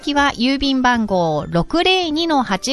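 measured, carefully spaced announcer read; radio announcement. Acted. Announcer giving listeners the programme's address, measured radio read. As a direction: read out the contact details slowly and evenly. Reads contact details on radio.

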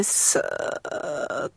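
long soft breath in through the nose; deep inhale demo. Shown as a demonstration. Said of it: "と息を吸う".

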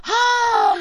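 high, exaggerated mock sigh; a toddler's weary sigh, voiced high; high, theatrical little sigh; child's sigh. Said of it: "あのため息".

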